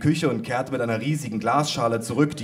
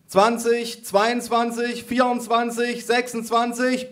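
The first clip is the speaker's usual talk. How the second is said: high, drawn-out count; grandma bellowing; 11 semitones higher, slower than usual. A narrator's reading. Grandma counting aloud across the living room, high drawn-out bellow. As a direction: call each number out slowly and high. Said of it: "brüllte meine Oma".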